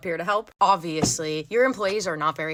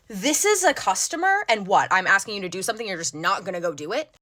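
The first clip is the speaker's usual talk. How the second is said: rude customer; faster than usual. Retold or imitated. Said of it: "This is an exact quote".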